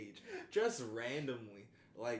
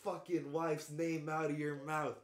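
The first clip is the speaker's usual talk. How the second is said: lightly voiced angry warning, a touch louder; retold threat; 4 semitones higher, 4 dB louder than usual. Friend retelling the Oscars slap, mild mock anger. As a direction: quote the slap line with mild heat. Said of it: "he was like".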